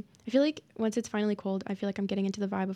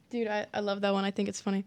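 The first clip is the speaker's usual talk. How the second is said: ordinary delivery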